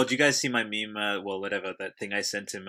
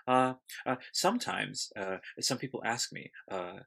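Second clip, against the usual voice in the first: Jeff Goldblum. Retold or imitated. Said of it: "it's like Jeff Goldblum speaking".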